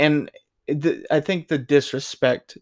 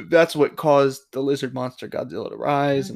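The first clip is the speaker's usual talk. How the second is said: burping while talking. Real, not acted. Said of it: "I'm drinking beer and I'm burping".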